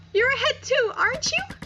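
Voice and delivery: put-on girl begging her friend to save her; desperate begging. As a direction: cry out for help in terror. Jael begs her friend Maria.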